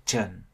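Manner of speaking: TRẦN as "chən", with an ơ-like vowel; schwa vowel. Shown as a demonstration. Teacher allowing another option, TRẦN with a schwa vowel. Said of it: "chuyển sang âm ơ cũng được".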